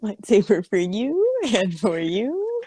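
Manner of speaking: slow, swooping singsong; mock-generous lilt; playful handing-out. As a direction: dole them out like candy, drawing out each "you". Acting out handing out lightsabers like candy.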